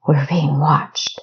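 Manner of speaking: slow, tense whisper. Acted. Kessa warning Equestria, slow tense whisper. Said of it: "she whispered".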